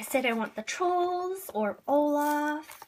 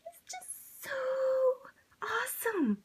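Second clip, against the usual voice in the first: awed whisper; 12 semitones higher than usual. Real, not acted. Shaking fan whispering how awesome the figure is. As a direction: whisper it, overwhelmed.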